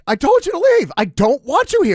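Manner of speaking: put-on high, loud cranky old man yell; hammed-up yell to send him out; mock yelling grandpa. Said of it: "he starts yelling at me".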